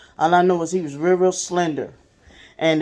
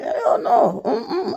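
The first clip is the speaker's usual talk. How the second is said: laughing refusal; 5 semitones higher, much slower than usual. Retold or imitated. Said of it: "And she's all laughing".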